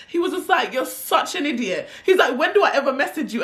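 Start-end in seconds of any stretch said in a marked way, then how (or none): 0.7-1.9 high, laughing imitation; mock him cracking up mid-sentence; laughing at her. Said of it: "The way he laughed at me". 2.4-3.4 high, laughing imitation; mock him cracking up mid-sentence; laughing at her. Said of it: "The way he laughed at me".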